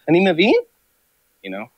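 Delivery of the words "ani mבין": own question in Hebrew. Retold or imitated. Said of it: "and I'd ask questions. Like".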